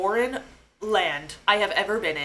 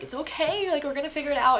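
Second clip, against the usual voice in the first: high-pitched imitated reassurance; consoling; 7 semitones higher than usual. Nurse comforting her in the parking lot, consoling voice. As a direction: soothe someone who has broken down. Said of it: "console me and whatever".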